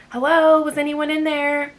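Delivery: high, loud call through the door; loud hello at the door. Retold or imitated. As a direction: call into the dark house. Banging on door, calling out.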